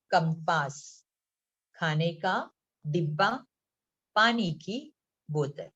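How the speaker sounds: पेंसिल, कॉपी, रंग and the rest evenly spaced, a pause after each; word by word. Shown as a demonstration. Teacher reading the school-bag list to pupils, word by word. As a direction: read out पेंसिल through बोतल as separate, carefully sounded words. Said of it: "मैं एक एक शब्द पढ़ रही हूँ".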